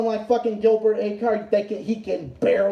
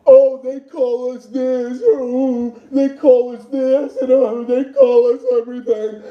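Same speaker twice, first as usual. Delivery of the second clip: mocking Gilbert; 3 dB louder, slower than usual. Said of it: "He acts like".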